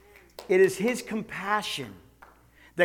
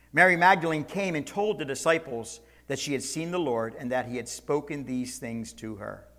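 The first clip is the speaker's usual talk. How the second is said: ordinary delivery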